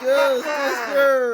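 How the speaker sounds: high, loud, slow squawked Ghostbusters; imitating game voice. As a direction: screech it like a bad game voice. Copies the game's garbled voice.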